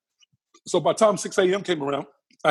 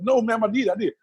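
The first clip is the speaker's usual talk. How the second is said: higher, insistent retold plea; begging; 6 semitones higher than usual. Patient in pain begs the nurse for medicine, insistent pleading. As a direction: plead urgently, pitch lifted. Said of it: "So I was begging the nurse".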